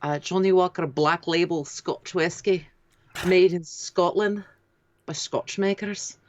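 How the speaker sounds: slow attempt at a Scottish accent; Scottish accent, ad-read style. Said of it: "Do your Scottish accent".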